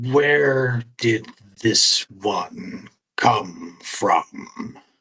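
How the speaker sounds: slow, deliberate, measured, deep statue voice. Narrating the scene, the speaker voices a talking statue in a slow, deliberate tone. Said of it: "The statue speaks in that slow, deliberate tone".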